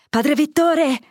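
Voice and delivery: high, loud call to a distant brother; summoning call over the noise. A narrator's reading. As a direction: shout across the yard. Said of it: "gridò il vecchio".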